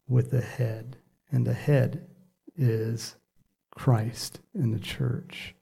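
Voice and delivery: slow, deliberate Bible reading; scripture reading. Real, not acted. Preacher reading the passage to his church, slow scripture reading. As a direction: read the verse out slowly, word by word. Reads scripture aloud to congregation.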